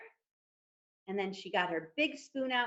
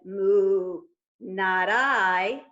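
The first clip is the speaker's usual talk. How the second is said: cow refusing; 4 semitones lower, 5 dB louder, much slower than usual. Acted.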